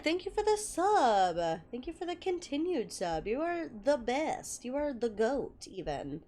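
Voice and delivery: soft, slowing thank-you; quiet heartfelt gratitude to a subscriber. Real, not acted. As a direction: thank them gently, fading as you go.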